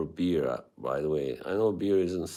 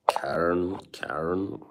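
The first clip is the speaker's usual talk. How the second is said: whisper. Acted. Teasing a chatter named Karen.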